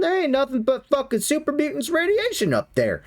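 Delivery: raider working out he was tricked, pitch climbing; suspicious raider. Acted. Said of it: "rolled just high enough to go".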